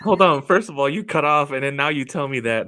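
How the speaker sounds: laughing protest. Real, not acted. Mock outrage, laughing.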